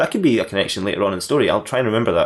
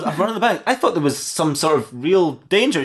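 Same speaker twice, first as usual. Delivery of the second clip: turtle; 5 semitones higher than usual. Acted. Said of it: "The turtle goes".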